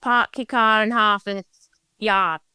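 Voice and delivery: copying a Massachusetts accent, not quite managing it; attempted Massachusetts accent. Shown as a demonstration. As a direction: have a go at a Boston-area Mass accent. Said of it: "show the mass accent".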